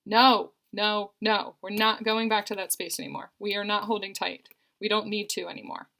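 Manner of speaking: starts with a loud burst of no, no, then settles; fiery passionate message. Retold or imitated. Reader voicing her client's partner, fired up and insistent. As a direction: channel his fired-up insistence, strongest at the start. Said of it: "a really fiery, passionate message".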